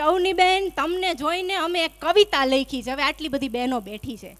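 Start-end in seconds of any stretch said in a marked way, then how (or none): 0.0-2.9 bright, eager call of her name, pitched up; a gushing admirer presenting his poem; eager organizer. Retold or imitated. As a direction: announce it like a proud fan. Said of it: "organiser કે".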